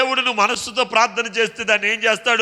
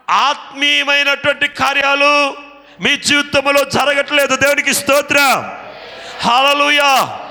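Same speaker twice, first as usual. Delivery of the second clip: rising Telugu preacher's call; fiery preaching; 2 semitones higher, 3 dB louder than usual. Acted. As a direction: preach it to the hall with fire. Preaching at full force.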